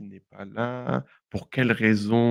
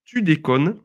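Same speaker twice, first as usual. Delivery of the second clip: Tu déconnes said high and a little louder; surprised tu déconnes; 6 semitones higher, 4 dB louder, slower than usual. Shown as a demonstration. Teacher voicing southwestern slang, surprised. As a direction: sound caught off guard. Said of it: "expression vulgaire".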